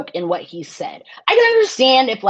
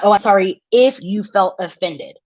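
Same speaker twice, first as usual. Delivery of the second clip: fake apology. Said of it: "It's not".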